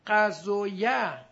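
قضویه stretched very slowly and loudly, final vowel held long; drawn-out demo. Shown as a demonstration. Teacher modelling the word قضویه for the class, slow and loud. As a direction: draw out قضویه, holding the end. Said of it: "teacher models the word".

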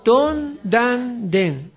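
long, separated beats on "دون دن دن"; case-ending drill. Shown as a demonstration. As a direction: lead the chant "دون دن دن", syllable by syllable. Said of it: "بگید".

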